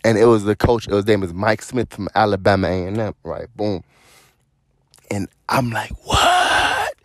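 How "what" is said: squeaky high what in disbelief; stunned high-pitched what; shocked disbelief. Retold or imitated. Shocked at coach's call.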